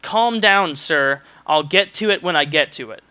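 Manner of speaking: imitating a clerk's dismissive snap, lightly; mild mock of a curt clerk. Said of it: "in a really just kind of curt voice".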